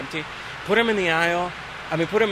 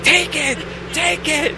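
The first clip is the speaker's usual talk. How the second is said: higher, louder urging; 11 semitones higher, 4 dB louder, slower than usual. Retold or imitated. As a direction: push him to keep it. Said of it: "And I'm like".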